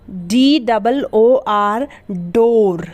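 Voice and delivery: slow spelling, then डोर with a clear ड; spelling and modelling. Shown as a demonstration. Teacher spells and says डोर for students. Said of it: "डी की sound क्या निकली".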